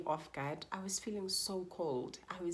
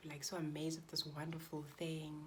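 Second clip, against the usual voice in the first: whispering; 7 dB quieter than usual. Real, not acted. Recalls holding her newborn.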